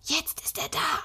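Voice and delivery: high, bursting with excitement, near tears; excited. Acted. Boy telling his sister Nikolaus has come, excited and near tears. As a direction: blurt it out, overwhelmed. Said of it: "vor lauter Aufregung an zu weinen".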